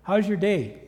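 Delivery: high, loud call from far off; imitated neighbor's yell. Neighbor hailing the speaker from his steps, yelling. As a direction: holler a friendly greeting across a distance. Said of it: "he yells".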